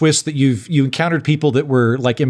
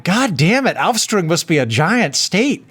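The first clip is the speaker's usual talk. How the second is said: exasperated; 2 semitones higher, slower than usual. Retold or imitated. Retold frustration at endless exit signs.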